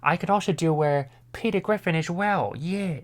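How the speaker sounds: muddled blend of two cartoon voices; Stewie and Peter. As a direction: do a confused mix of two Family Guy voices. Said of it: "I'm combining Stewie and Peter for some reason".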